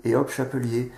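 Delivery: chapelier tossed off in one go after a breezy hop; quick guess. Shown as a demonstration. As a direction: guess the whole word without reading it. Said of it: "ils vont lire chapeux, hop, ils déduisent". (chapelier deviné d'un coup, à la légère)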